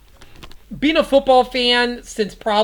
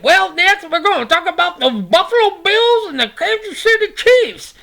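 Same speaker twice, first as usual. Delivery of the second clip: much higher, bright announcer call; 9 semitones higher than usual. Acted. Introducing the next game to viewers, high announcer voice. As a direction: announce the next matchup like a game-show host.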